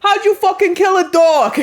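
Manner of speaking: high, full-volume mobster shout; hammed-up mob boss roaring in disbelief; Tony Soprano. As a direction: yell it as an outraged gangster impression. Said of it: "I feel like I'm Tony Soprano".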